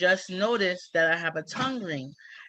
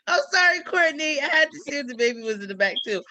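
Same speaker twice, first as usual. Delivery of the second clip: giggly apology; 7 semitones higher, 5 dB louder than usual. Real, not acted. Laughing apology, pitch way up.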